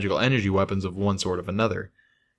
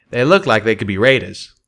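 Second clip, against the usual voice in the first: Calamity voice; 5 dB louder than usual. Acted.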